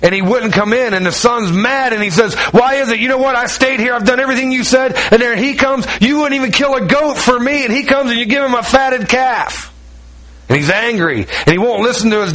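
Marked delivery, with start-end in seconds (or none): 2.3-9.7 higher-pitched, aggrieved complaint from the son; resentful older son. Acted. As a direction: whine it out like the jealous brother who stayed. Resentful older son confronts father.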